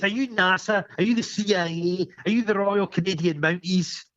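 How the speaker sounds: mock a paranoid escapee listing agencies; retelling a film character's accusations, mock paranoid; paranoid rant. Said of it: "He says".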